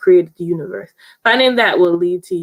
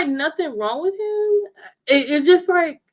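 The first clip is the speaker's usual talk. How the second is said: laughing; 9 semitones higher than usual. Real, not acted. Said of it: "laughing while telling".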